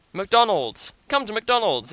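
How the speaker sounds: jingle-style McDonald's pitch; mock advert. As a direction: sell it like a cheesy TV ad.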